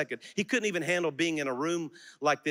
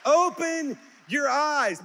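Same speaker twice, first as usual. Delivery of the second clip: loud slow command; 10 semitones higher, 4 dB louder, much slower than usual. Acted. Preacher charging the congregation to see, loud and slow. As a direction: Open your eyes, drawn out slow, higher and louder.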